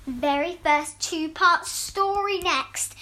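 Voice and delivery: slow, careful read; slow read aloud. Shown as a demonstration. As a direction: read it out slowly. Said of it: "I left an extra tag saying".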